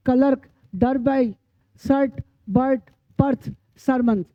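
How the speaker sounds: word-list demo, ER pronounced "ar" as in मर्सी. Shown as a demonstration. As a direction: say जर्क as "jark", with a short "a" before the r. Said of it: "ई का उच्चारण आ होगा".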